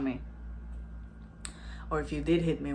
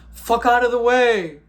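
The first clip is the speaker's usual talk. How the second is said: loud, higher-pitched angry shout; retold angry yell; 5 semitones higher, 10 dB louder than usual. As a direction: yell it like a furious driver. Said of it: "he's like".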